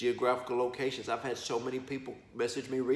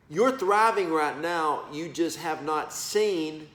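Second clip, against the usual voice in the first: emphatic; 3 semitones higher, 4 dB louder, slower than usual. Real, not acted. Preacher driving home the point.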